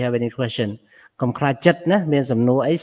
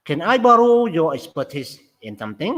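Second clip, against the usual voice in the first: fast example read; much faster than usual. Shown as a demonstration. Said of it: "តើគេ stress កន្លែងណា?".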